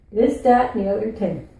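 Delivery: "This, that, and the other thing" with th turned to d and t; Newfie pronunciation. Shown as a demonstration. Host has viewers repeat, "This, that, and the other thing" with Newfie dropped th. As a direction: say "This, that, and the other thing" as dis, dat, udder ting. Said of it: "Say it like a Newfie".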